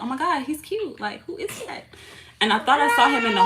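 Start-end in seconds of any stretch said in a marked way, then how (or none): 0.0-1.8 retold crush. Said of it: "I was like".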